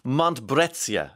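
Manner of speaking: Montbrezia said slowly, syllable by syllable; careful pronunciation. Shown as a demonstration. Presenter reading a listener's text, sounding out Montbrezia slowly. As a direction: spell out Montbrezia slowly, as if checking it. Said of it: "I think is how you pronounce that".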